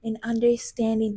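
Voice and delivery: lightly mocking imitation of women contestants; mimicked dating-show women. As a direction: parrot a dating-show wish list, mockingly. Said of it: "That's what y'all be saying".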